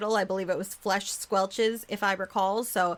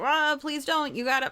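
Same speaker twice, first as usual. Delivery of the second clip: higher-pitched mock dying plea; dying man pleading; 6 semitones higher than usual. Storyteller voices the doomed guy begging the hero, mock desperate pleading. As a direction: beg for life, hammed-up. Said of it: "and then he dies".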